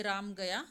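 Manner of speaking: "राम गया" said as a simple statement; plain statement intonation. Shown as a demonstration. Teacher showing students one phrase in three intonations, plain statement. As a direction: state "राम गया" matter-of-factly, no extra emphasis. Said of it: "इसमें सामान्य कथन, प्रश्नवाचक और आश्चर्य दिखाया गया है".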